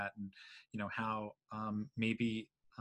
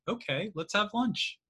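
imitating client; 9 semitones higher than usual. Client suddenly agreeing.

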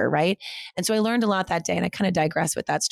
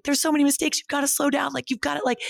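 higher-pitched mock scolding advisor voice; imitating her advisor; 8 semitones higher than usual. Quoting her advisor Robin on the phone, higher mock scolding. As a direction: play the blunt advisor telling her off, pitched up. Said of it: "she was like".

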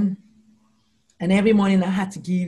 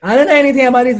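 raised, higher distressed cry; crying to her dad; 7 semitones higher, 11 dB louder, much faster than usual. Retold or imitated. New officer crying to her general father, raised and distressed. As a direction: blurt it out half in tears, retold. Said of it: "I'm crying".

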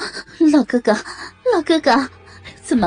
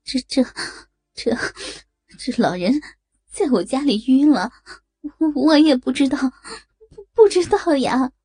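a touch of frightened stammering, higher; 3 semitones higher than usual. Acted. Woman stammering fearfully to the police officer. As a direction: stutter it out, scared. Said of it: "张凯丽惊恐地说".

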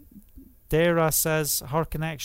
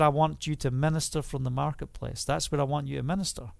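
God's voice; 2 semitones lower, 4 dB quieter, faster than usual. Retold or imitated. God's reply quoted.

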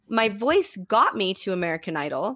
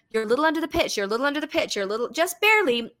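imitating voice teacher; 4 semitones higher, much faster than usual. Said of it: "by my voice teacher".

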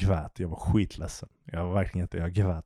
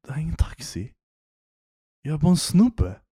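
higher, incredulous insistence; baffled protest; 8 semitones higher than usual. Retold or imitated. Telling the drunk woman he is no taxi, baffled. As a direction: protest in disbelief that you're just a guy. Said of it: "Så jag bara".

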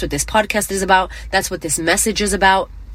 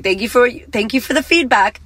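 higher, brighter put-on politeness; fake sweet thanks; 5 semitones higher than usual. Replying to the mean client, with mock sweet politeness. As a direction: thank her sweetly through your teeth. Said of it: "But I could be like".

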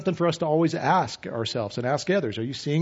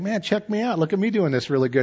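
smug self-praise; 5 semitones higher than usual. Retold or imitated. Proud believer praising himself.

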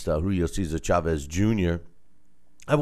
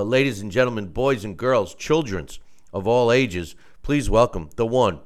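grand entrance announcement; 4 semitones higher, 10 dB louder than usual. Acted. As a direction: ring announcer intro, building louder. Boxing ring style introduction.

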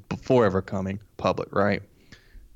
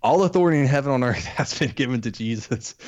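laughing while reading; 4 semitones higher than usual. Real, not acted. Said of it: "I can't get through it without laughing".

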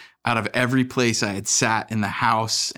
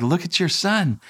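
higher, amused wife voice; wife pointing out; 7 semitones higher than usual. Retold or imitated. Wife telling husband to look at son, amused. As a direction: lightly voice the wife. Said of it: "She's like".

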